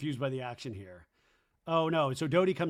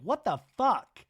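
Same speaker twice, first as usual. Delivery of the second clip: louder, higher, slow exasperated yell; mock outraged yell; 7 semitones higher, 5 dB louder, slower than usual. Zach storming up to friends, mock yell. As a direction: blurt it out in disbelief. Imitating Zach's outburst.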